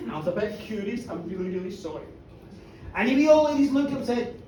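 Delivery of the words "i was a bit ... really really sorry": low, soft confession; small, contrite admission; meek apology. Acted. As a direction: mumble it sheepishly. Hamish apologises to the old ladies.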